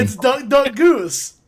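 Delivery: slow, loud, stressed "Duck Duck Goose"; emphatic correction. Real, not acted. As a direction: drag out "Duck Duck Goose" firmly. Correcting the regional name.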